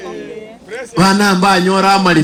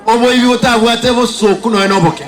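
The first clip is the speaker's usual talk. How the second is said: rally speech; 4 semitones higher than usual. Real, not acted. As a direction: fire up the crowd. Rally speaker rousing crowd.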